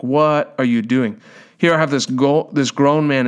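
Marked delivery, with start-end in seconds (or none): 0.0-1.2 slow, drawn-out mock disbelief; imitated disbelieving ushers. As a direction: voice an onlooker's baffled question, slowly. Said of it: "the ushers looking at me like".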